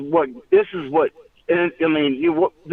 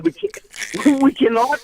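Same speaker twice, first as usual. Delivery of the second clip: laughing through words; 6 semitones higher, 3 dB louder than usual. Retold or imitated. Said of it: "we can't hold a conversation".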